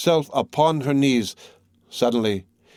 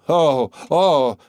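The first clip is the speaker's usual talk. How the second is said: loud mirthless "oh, oh" laugh; appalling laugh; 3 semitones higher, 4 dB louder than usual. A narrator's reading. Recluse at the grating, crying out with an appalling laugh. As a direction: cry out as if laughing horribly. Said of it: "cried with an appalling laugh".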